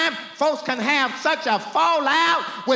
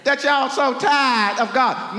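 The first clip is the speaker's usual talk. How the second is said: higher, louder indignant shout; God's shouted question; 3 semitones higher, 4 dB louder than usual. Acted. God questioning his people in court, shouting. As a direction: fling the question at them. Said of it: "He said".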